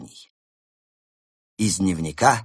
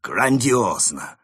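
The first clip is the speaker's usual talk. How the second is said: slow, loud delight; 5 semitones higher, 6 dB louder, much slower than usual. Acted. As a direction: savor the word with joy. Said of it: "обрадовался Крот".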